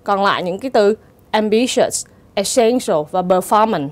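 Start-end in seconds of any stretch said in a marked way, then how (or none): 1.3-3.9 am-BI-tious, es-SEN-tial và per-FOR-mance; second-syllable stress. Shown as a demonstration. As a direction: stress the second syllable in "ambitious", "essential", "performance". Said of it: "thì dấu nhấn rơi vào âm tiết thứ hai". ("ambitious, essential và performance", nhấn âm tiết thứ hai)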